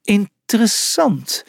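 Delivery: drawn-out, intrigued hiss. A narrator's reading. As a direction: hiss it, drawing out the word. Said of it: "siste Sun Xia".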